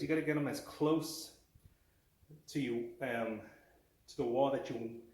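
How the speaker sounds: halting, stumbling over words; stuttering. Real, not acted. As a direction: stutter and restart mid-sentence. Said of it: "Sorry, I'm stuttering".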